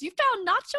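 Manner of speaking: high, loud, eager question; imitating the owner's sudden hope; excited disbelief. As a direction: owner thrilled his cat was found. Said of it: "And he goes".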